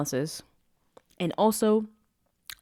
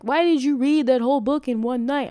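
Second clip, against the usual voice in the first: incredulous viewer; 7 semitones higher, 6 dB louder than usual. Retold or imitated. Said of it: "And I know you're like".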